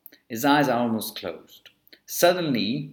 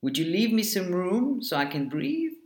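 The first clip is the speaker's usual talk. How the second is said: higher, politely lilting question; nice polite request; 6 semitones higher than usual. A narrator's reading. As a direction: plead nicely, rising high at the end. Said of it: "asked him nicely".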